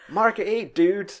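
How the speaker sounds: imitating Walter shouting down the lane. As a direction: bark it like an angry bowling vet. Quoting Walter's bowling standoff.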